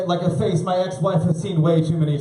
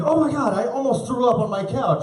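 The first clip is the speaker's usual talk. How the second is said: high, panicked mock shriek; mock disgusted ex-wife cry; 9 semitones higher than usual. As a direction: play the ex-wife near throwing up. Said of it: "She's like".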